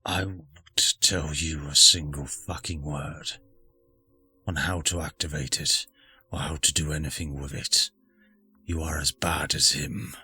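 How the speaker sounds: low, cold spirit growl; menacing spirit voice. Acted. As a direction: threaten them, voice dropped low. Hostile spirit refusing help.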